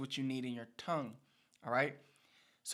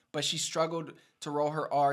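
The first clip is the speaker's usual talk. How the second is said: usual speaking voice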